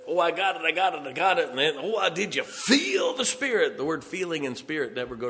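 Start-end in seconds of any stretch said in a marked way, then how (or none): 0.1-3.8 lightly mocking, excited worshipper; hammed-up gushing, rising higher at the end; imitated charismatics. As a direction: mimic someone carried away by feeling. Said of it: "These charismatics that".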